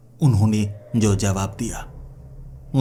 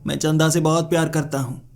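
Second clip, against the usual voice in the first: higher-pitched, imploring declaration; acted tearful begging; 5 semitones higher, faster than usual. Suitor breaks down before the elder, higher tearful begging. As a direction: plead it as if close to tears. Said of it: "गिड़गिड़ाने लगा और कहने लगा".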